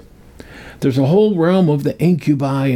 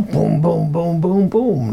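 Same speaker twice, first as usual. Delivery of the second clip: knocking sound; 5 semitones higher, slower than usual. Shown as a demonstration. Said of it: "knock on the door".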